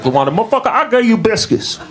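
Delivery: very high-pitched mock scolding; indignant girl. Quarrel with LaWanda over biscuits.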